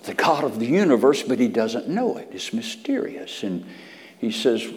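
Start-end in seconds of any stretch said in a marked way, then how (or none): 2.3-3.4 high, slow, wondering; wondering aloud to the congregation; marveling. Acted. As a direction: lift it up in awe.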